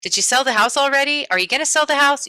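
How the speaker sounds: casual coworker chatter; casual office talk. Retold or imitated. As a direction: toss it off like a coworker in the hallway. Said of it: "They call 'em".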